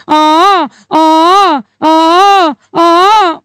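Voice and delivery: hammed-up loud wailing ahs; mock crying ah ah ah. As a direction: wail like a losing firm, half in jest. Acting a firm crying over losses.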